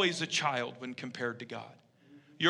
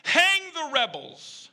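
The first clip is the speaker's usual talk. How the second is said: high, loud crowd heckler's cry; vindictive yell; 10 semitones higher, 4 dB louder, much slower than usual. Retold or imitated. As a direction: yell it out with drawn-out, vengeful force. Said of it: "one of the vindictive crowd members yelled out".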